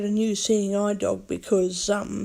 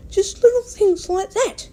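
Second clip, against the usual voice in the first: sudden squeak up; 12 semitones higher, 5 dB louder than usual. Real, not acted. Voice jumps up mid-rant.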